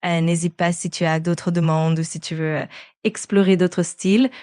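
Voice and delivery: put-on French with a light Parisian accent. Assistant returning on request to French, light Parisian accent. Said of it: "peux-tu retourner à l'accent français parisien?".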